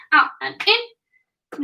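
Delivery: "out and in" drawn out slowly, stretched words; slow it right down to show the move; slowed demo. Shown as a demonstration. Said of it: "So out and in".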